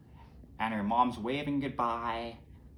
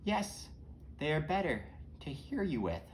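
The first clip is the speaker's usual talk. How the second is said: high, swooping put-on voice; lilting fake-granny reply; wolf posing as grandma; 5 semitones higher than usual. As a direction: answer sweetly, pitched up. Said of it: "And the response is".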